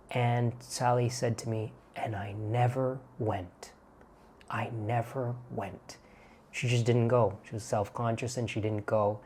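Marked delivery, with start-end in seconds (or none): 1.9-6.0 regretful quote. Retold or imitated. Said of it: "said it with regret in her voice".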